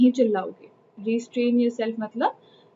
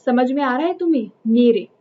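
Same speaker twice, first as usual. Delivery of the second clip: mock insistence. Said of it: "और वो कहता है कि".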